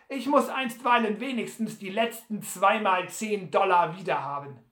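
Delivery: lightly acted dismissive gambler; impatient Butler. Butler demands money from the innkeeper, mildly impatient. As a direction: brush it aside with mild impatience.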